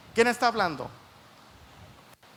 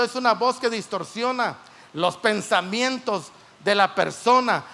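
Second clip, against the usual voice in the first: emphatic preaching; 3 semitones higher, 4 dB louder than usual. Real, not acted. Preacher drives the point home.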